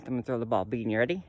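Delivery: talking around a pipe in mouth. Real, not acted. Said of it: "I have a pipe in my mouth".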